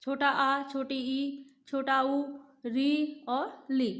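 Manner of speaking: री और ली drawn out very slowly; name each short vowel carefully; slow recitation for the class; short vowels recited. Shown as a demonstration. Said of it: "जैसे हिरस्व स्वर क्या थे?".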